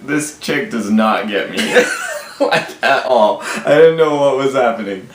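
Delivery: chuckling through the words; laughing. Real, not acted. Husband laughing as he recalls the confusing first date. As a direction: laugh it out in disbelief.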